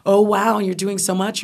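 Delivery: high-pitched impressed gushing; hammed-up wowed reaction, starting loud; mock admiration. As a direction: imitate an awed admirer. Mimics people impressed by her success.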